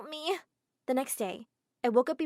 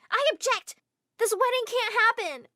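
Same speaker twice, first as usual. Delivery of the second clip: higher, loud, slower desperate shout; screamed, more desperate; 12 semitones higher, 7 dB louder than usual. Acted. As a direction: push it harder to stop the wedding. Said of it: "I screamed when I entered".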